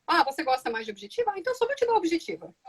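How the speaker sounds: life talking. Retold or imitated. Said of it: "A vida não chega pra você e diz assim".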